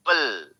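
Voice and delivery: "पल" alone, falling, as unstressed ending; syllable break. Shown as a demonstration. Teacher shows second syllable, पल separate and falling. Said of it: "यहाँ पे break हो रहा है".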